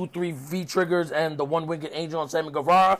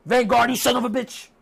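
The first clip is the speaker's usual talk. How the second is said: mock frantic, higher-pitched calling out; exasperated, raised-pitch pleading turning to cursing; Chris Jericho; 5 semitones higher than usual. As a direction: imitate someone upset, calling it back. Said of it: "Chris Jericho's upset".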